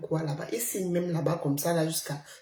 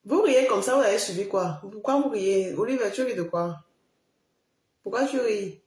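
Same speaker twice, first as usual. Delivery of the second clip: loud scolding; 2 semitones higher, 4 dB louder than usual. Real, not acted. Streamer scolding laughing viewers in the chat, loud. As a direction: call them out for laughing.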